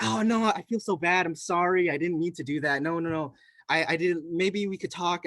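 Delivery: hammed-up regret, easing off; mock flustered apology. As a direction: imitate someone frantically backtracking. Retold flustered apology after panicking.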